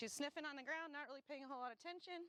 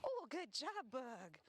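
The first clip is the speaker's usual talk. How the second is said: excited praise; much slower than usual. Real, not acted. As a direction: burst out with praise. Praising the dog.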